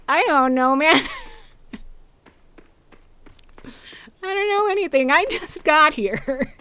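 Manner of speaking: high silly voice for a confused game character; clueless villager. Acted. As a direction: squeak it like a baffled newcomer.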